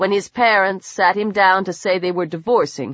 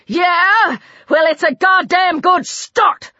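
higher-pitched angry comeback; defiant retort; 7 semitones higher than usual. A narrator's reading. Killer answering the man who rebukes her, defiant. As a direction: throw it back angrily, pitched up.

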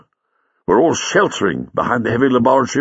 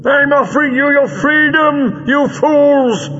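very high villain's scream; shrieked, high-pitched outburst; 4 dB louder, slower than usual. A narrator's reading. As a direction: scream it in exasperation at the enemy. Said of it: "screamed Greel".

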